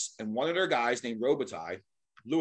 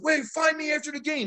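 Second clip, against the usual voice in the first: higher-pitched imitated yell; retold yell; 12 semitones higher than usual. Angry player to the mascot after the fight, retold yell. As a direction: mimic the angry player calling out, mildly. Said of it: "He's yelling at me".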